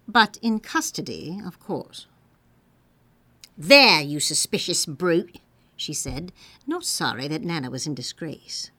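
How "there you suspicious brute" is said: loud, mildly cross servant; a hint of a scolding maid; scolding Liza. A narrator's reading. Liza bringing Nana to the nursery, loud and cross.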